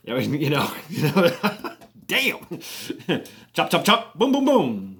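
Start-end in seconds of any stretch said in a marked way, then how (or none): 3.5-5.0 rhythmic chop-chop and boom sound effects; imitated kitchen noises. Storyteller mimicking Tam butchering a chicken, playful sound effects. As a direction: act out the cook's fast chopping in sounds. Mimes the cook's rapid chicken prep.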